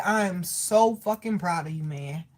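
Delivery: low, soft and sincere; heartfelt relayed pride. Retold or imitated. Medium passing a father's words to his child, heartfelt. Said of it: "he said".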